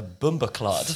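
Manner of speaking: BUMBA CLOT said carefully in an outsider's English accent; hesitant, un-Jamaican "bumba clot"; mispronounced slang. Real, not acted. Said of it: "teach you how to say it properly".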